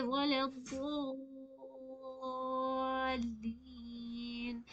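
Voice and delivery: वला ddallin with the vowel held six counts; long madd. Shown as a demonstration. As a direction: draw out the long vowel fully. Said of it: "खींचनी है sister".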